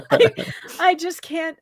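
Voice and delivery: slow words broken by laughter; can't get it out for laughing; giggling helplessly. Real, not acted. Laughing breakdown.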